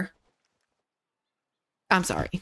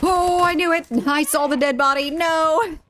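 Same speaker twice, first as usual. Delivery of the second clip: excited outburst; 9 semitones higher, 4 dB louder than usual. Real, not acted. Caught dead body in game.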